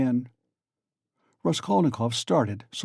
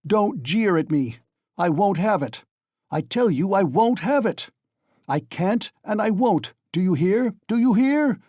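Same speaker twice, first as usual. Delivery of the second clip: building furious shout, higher and louder; 7 semitones higher, 3 dB louder than usual. A narrator's reading. Raskolnikov shouting at Porfiri, fist on the table. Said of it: "he shouted".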